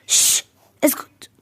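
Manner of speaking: slow whispered shush; hushed whisper. Acted. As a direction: hush them in a slow whisper. Hushing someone in a sketch. (همس بطيء للإسكات)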